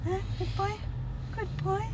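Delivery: high cooing praise; praising pet. Real, not acted. Owner praising her dog, high cooing good boy.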